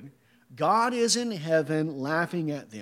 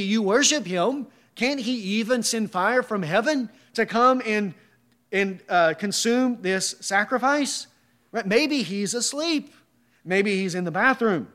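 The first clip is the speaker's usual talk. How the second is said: mocking; 3 semitones higher than usual. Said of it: "He's mocking their idolatry".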